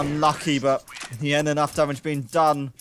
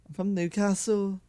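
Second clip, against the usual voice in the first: attempted Geordie accent, pitched a little higher; 5 semitones higher than usual. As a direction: have a go at a Newcastle accent, not quite landing it. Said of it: "A, a proper Geordie accent".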